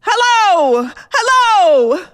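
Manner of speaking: half-laugh, half-sob of terror; terrified wife begs the caller to answer, crying; sobbing panic. Acted. Near-sobbing panic on phone.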